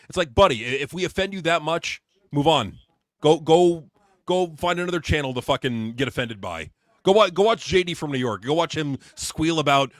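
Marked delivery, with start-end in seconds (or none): 2.3-9.9 louder, pushing move on and go away; loud dismissal. Real, not acted. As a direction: shove the critics off to another channel. Telling critics to go away.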